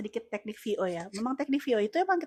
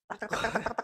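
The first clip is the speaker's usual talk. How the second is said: manual clicking sound; 7 dB quieter than usual. Pretend. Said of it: "Tetep aja manual".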